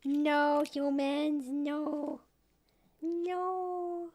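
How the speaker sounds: drawn-out mock refusal; dog's imagined voice. Owner voicing her reluctant dog, mock-solemn refusal. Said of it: "She's like".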